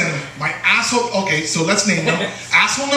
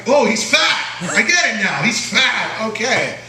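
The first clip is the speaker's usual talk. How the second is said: high smug teasing voice; mocking cousin; 5 semitones higher than usual. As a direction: rub it in like a bratty cousin. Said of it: "He's like".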